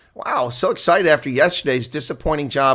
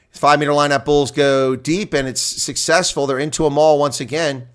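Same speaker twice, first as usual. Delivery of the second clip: louder driving commentary on the maul; play-by-play; 4 dB louder than usual. Acted. Streamer calls the Bulls maul, energetic play-by-play. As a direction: push the call with the maul.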